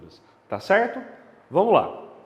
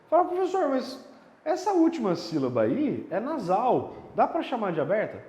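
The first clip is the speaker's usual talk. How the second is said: higher-pitched call to the teacher, easing off; imagined student's question; 4 semitones higher than usual. Pretend. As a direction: lightly voice a pupil piping up with a doubt.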